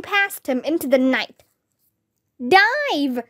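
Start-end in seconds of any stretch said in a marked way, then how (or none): 2.6-3.2 high-pitched cry of warning, no real volume; mild scream. A narrator's reading. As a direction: call out a sudden warning in a restrained scream. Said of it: "Ruth Rose screamed".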